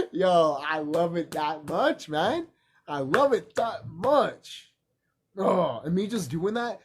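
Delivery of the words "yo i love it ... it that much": fake-weep it with mock emotion; playful tearful declaration of love; mock crying. Acted quote of look between brothers.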